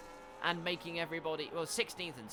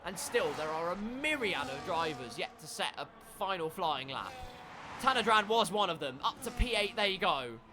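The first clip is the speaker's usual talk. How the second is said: energetic race commentary, building; live play-by-play; 3 semitones higher, 4 dB louder than usual. Real, not acted. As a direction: call the lap as it unfolds.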